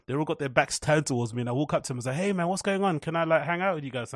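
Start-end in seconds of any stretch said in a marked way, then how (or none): 2.1-4.1 a hint of an innocent little kid, asking timidly; lightly voiced small boy, hopeful and sweet; super innocent kid. Small boy asking the cold friend group to hang out, innocently. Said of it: "super innocent".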